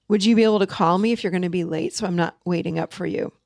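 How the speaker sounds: level ending, no upward note on "you"; matter of fact. Shown as a demonstration. Coach showing the spouse question ending firm and level. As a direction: state it flatly and let it fall. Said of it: "the end of that sentence should be".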